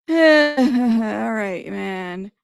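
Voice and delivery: laughing in disbelief into all right; incredulous laugh. Real, not acted. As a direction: laugh it off, can't believe this. Laughing at absurd testimony.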